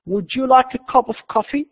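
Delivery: slow, high-pitched question; careful model reading. Shown as a demonstration. Manager offers the visitor coffee, slow careful model reading. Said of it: "listen carefully and see how words are pronounced".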